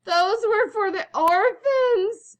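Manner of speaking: high, slow, loud shriek. A narrator's reading. Aunt outraged at the eaten presents, shrieking. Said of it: "shrieked Aunt Figgy about the missing presents".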